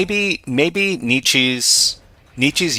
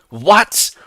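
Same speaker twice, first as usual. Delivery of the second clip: surprised; 9 semitones higher, 3 dB louder than usual. Real, not acted. Shocked by the chat message.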